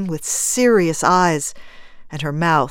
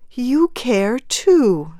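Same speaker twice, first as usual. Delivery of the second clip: higher, drawn-out tender voice; soft; 6 semitones higher, 4 dB louder, much slower than usual. A narrator's reading. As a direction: reach out slowly to a fellow mourner. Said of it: "she said softly".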